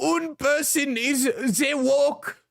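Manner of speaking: very slow, bad, exaggerated fake German accent. Switching from ChatGPT to doing Grok: Grok in exaggerated fake German accent. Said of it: "Grok sounds like a really bad impression of a German person".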